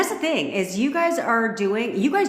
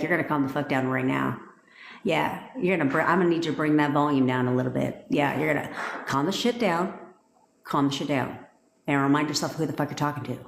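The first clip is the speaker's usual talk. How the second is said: deadpan stern command; 4 semitones lower, faster than usual. Acted. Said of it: "Look him dead ass in his face and be like".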